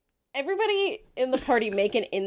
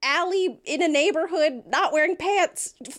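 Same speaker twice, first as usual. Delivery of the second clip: Talos voice; 8 semitones higher than usual. Acted.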